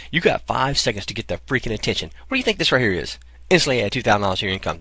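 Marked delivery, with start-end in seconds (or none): 3.5-4.8 fast, punchy ad-copy headline; sales headline read. Shown as a demonstration. Marketer showing sales copy as a fast punchy headline. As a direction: sell it like a page headline, quick. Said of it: "Here's sales copy".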